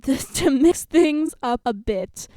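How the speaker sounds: very slow, loud retake; coach announcing. A narrator's reading. Coach redoing the fluffed line, slow, loud and careful. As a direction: enunciate each word deliberately in coach voice.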